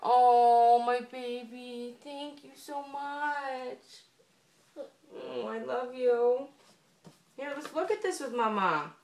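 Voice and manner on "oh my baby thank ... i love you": tender, slow thanks. Real, not acted. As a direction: melt over the gift. Mom thanks son for gift.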